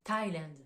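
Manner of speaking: "Thailand" starting with a plain T; English Thailand. Shown as a demonstration. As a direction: say "Thailand" with no h sound. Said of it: "ça se prononce en anglais".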